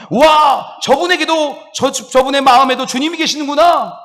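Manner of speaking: loud, high cry of wonder; shouted amazement. Shown as a demonstration. Believer marveling that God dwells in a troublesome person, loud and high. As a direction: marvel out loud at a difficult neighbor. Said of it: "라고 감탄하는".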